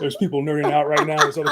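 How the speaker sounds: talking through a laugh; amused, chuckling words. Real, not acted. Joking about listeners losing interest.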